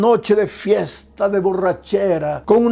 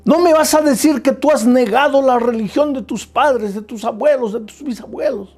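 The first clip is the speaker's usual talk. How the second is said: mild mock indignation; 2 semitones higher than usual. Preacher voicing a mother rebuking her daughter, mildly indignant. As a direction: play the mother scolding, half-hearted outrage.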